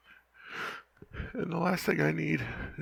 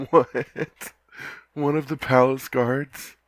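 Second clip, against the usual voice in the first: much louder, slow astonished disbelief; louder stunned what; surprised outburst; 11 dB louder, much slower than usual. Acted. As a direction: blurt it out in shock. Surprised by partner's crush reveal.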